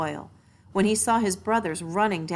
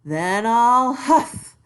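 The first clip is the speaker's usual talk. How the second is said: loud, higher, slow menacing wolf; wolf's threat; 6 semitones higher, 10 dB louder, slower than usual. A narrator's reading. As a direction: stretch each threat out like a big bad wolf. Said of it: "cried the wolf".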